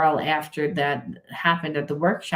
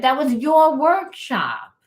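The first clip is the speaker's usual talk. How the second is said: Spirit's voice; 10 semitones higher, 4 dB louder, slower than usual. Retold or imitated. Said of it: "He was like".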